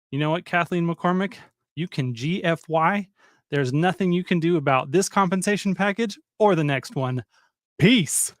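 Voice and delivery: put-on a touch of Texan accent. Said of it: "with your little Texan accent".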